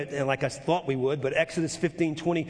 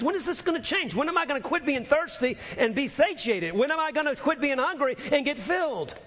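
mock grumbling; 9 semitones higher than usual.

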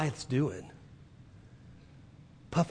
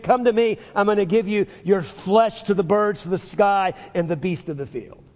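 mock Goliath threat; 3 semitones higher than usual. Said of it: "this Goliath also says to David".

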